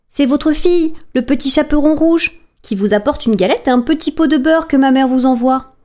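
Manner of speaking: put-on little girl voice. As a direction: speak up sweetly as the child. Girl answers the wolf.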